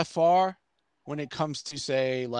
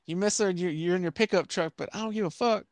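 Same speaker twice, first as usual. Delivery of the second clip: mock exasperation; 6 semitones higher than usual. Acts out telling off country singers.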